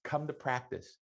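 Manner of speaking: a booming welcome to the new recruit; excited welcome. Retold or imitated. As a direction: beckon him in with delight. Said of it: "I said".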